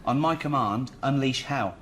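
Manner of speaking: put-on Gladiator line in a light Reading accent. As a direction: deliver the epic line in a mild Reading accent. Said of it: "Did you just do that in the Reading accent".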